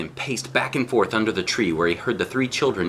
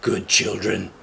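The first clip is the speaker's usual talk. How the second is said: begging wolf; slower than usual. Acted. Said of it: "the wolf begged".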